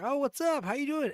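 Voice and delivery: mock self greeting the karaoke girl; chirpy greeting. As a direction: play it as a nervous friendly squeak. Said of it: "I run into her again".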